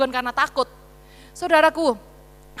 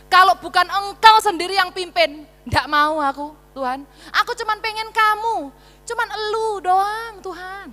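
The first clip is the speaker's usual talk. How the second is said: pleading Moses; 5 semitones higher, 3 dB louder than usual. Acted. Moses pleads devotion to God.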